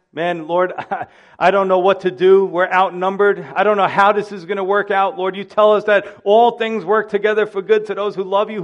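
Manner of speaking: anxious prayer. Pretend. Voices a believer's anxious prayer.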